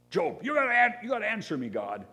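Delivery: high, loud whiny demand at God; mock demanding prayer. Preacher mimics a believer bossing God, high loud demand. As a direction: squeal it like a spoiled petitioner.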